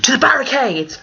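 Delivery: high rousing battle call; rallying cry. Acted. Rallying cry after reading thirteen.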